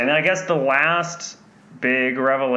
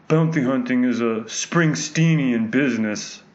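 Werner Herzog line; slower than usual. Retold or imitated. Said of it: "this famous line that Werner Herzog keeps repeating".

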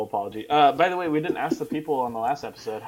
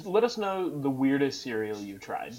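underwater. Real, not acted. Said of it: "You sound like you're underwater".

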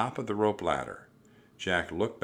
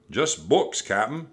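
raised, higher pirate crewman; shouting; 5 semitones higher, 6 dB louder than usual. A narrator's reading. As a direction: shout the report back to the captain. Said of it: "shouted Stinky".

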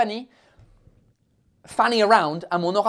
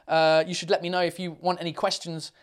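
ordinary delivery

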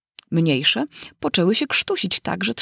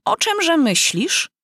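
slow, high stern question; 10 semitones higher, slower than usual. A narrator's reading. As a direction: scold her slowly from on high. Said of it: "rzekła mysz surowo".

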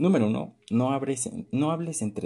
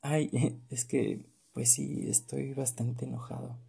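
soft, giggly sweet voice for angry words; mismatched sugary delivery; 3 semitones higher, 4 dB quieter than usual. Shown as a demonstration. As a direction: say it sweetly with a little laugh. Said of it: "con una voz muy dulce".

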